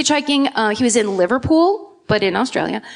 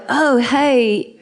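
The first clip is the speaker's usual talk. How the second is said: put-on failed Australian accent. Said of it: "I can't do it".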